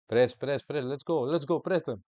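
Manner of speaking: loud urgent press calls; shouting at the screen to press. Real, not acted. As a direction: yell at the team to press. Shouting at players in game.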